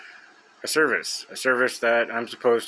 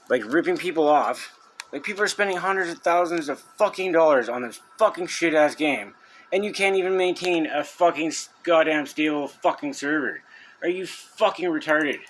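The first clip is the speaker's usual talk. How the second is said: higher pitched, spitting out every curse; furious rant; 4 semitones higher than usual. Real, not acted. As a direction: rant at the company in real outrage. Ranting at Blizzard's server.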